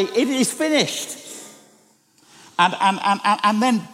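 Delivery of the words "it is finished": slow, hushed last words; solemn cry. Retold or imitated. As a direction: let it out slowly, like a final breath. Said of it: "It's cried out on Good Friday".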